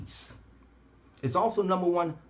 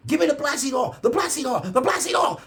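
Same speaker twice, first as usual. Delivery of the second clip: high, loud mock screaming of the nurse; imitated scream; 12 semitones higher, 6 dB louder than usual. Head nurse screaming at him for the oil, high mock shriek. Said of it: "she was screaming".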